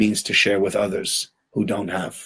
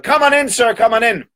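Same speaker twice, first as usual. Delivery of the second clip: high, effusive welcome; high-pitched, fawning invitation; eager host; 10 semitones higher, 3 dB louder than usual. Acted. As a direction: usher him in over-eagerly.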